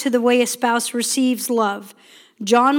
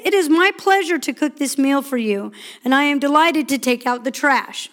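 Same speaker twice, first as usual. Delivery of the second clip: cheerful attitude. Shown as a demonstration. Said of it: "but attitude says".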